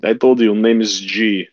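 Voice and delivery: a hint of a knowing vampire; lightly voiced vampire woman.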